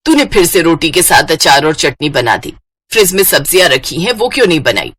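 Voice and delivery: mother telling off her lazy daughter; scolding mother. Acted. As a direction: scold her like an old-fashioned mom.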